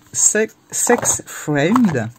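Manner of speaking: slow, drawn-out English-accent reading of Sex Friend. Shown as a demonstration. Reading the question title to viewers, in a mock English accent. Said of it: "avec mon super accent anglais".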